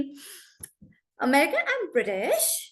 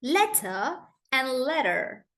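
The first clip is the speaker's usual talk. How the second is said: British then American; slower than usual. Shown as a demonstration. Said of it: "that's the difference".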